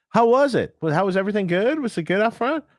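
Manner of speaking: high, eager questioning voice; eager musician. Retold or imitated. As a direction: ask sweetly, fishing for praise. Band asking sound guy afterwards.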